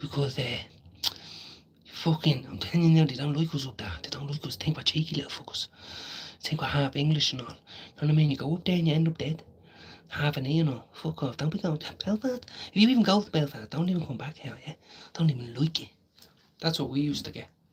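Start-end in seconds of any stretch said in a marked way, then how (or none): 0.0-15.9 put-on coked-up ranting voice, as if high on cocaine. Retelling a warning from someone on coke at four in the morning: imitating someone high on coke. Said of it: "out with your face on coke".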